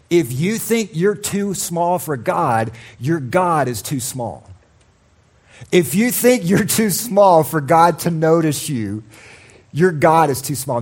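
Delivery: slow, weighty repeated maxim; preaching refrain. Acted. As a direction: hammer the line home twice. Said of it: "preaching refrain".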